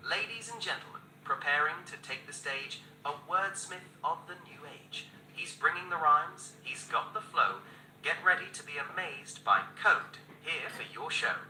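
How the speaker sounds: game show host build-up; announcer intro. Pretend. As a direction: show announcer hyping the crowd. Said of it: "you're the announcer".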